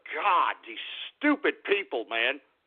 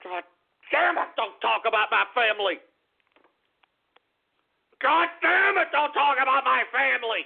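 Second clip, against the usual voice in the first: angry yell. Real, not acted. Still raging.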